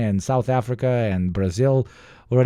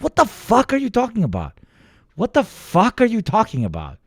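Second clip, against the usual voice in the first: incredulous retort; 10 semitones higher than usual. Retold or imitated. Acting out his own baffled retort.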